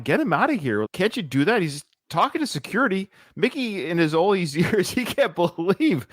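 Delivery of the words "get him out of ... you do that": higher-pitched retold yell at normal volume; raised pitch, mild mock yelling. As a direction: imitate an exasperated trainer yelling, without real volume. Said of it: "Mickey is yelling".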